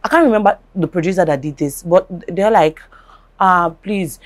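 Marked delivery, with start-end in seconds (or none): 3.4-4.2 mild retold pleading, softly voiced. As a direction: softly imitate someone asking a favour. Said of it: "a, a plead, like, you know, pleading that".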